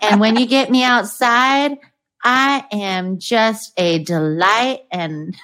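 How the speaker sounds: lightly put-on Southern belle accent, playful; a hint of a coy Southern drawl, half-laughing. Voicing the dog's dating profile to the guest, light Southern accent. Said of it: "do her Southern accent. You do a perfect one".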